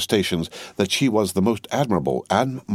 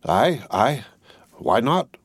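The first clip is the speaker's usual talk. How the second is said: mild eager cry; 4 semitones higher, slower than usual. Acted. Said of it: "cried the sawyer".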